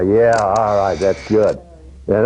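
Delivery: usual speaking voice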